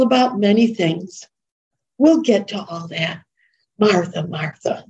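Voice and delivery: lightly tender, understated; a hint of gentle reassurance to a worried friend; tender, intimate. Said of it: "That was tender".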